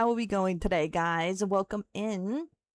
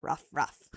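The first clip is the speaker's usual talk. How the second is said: mock bark; 5 semitones lower than usual. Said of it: "Does that work?".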